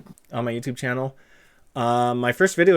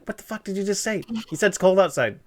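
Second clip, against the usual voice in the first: higher-pitched mock indignation; exasperated retort; 4 semitones higher, faster than usual. Retelling a reply to the boss, exasperated. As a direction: play up being baffled and fed up.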